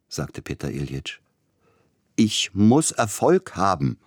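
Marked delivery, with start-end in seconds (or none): 2.1-4.0 slow, higher, louder outcry; desperate shout. A narrator's reading. Pianist shouts his need for success, slow and loud. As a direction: hammer out each word with desperate need. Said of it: "schrie Sapielnikow".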